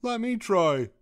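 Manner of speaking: high, loud burst of excitement; eager whoop. A narrator's reading. Douglas keen to join the owl, high eager whoop. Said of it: "whooped Douglas".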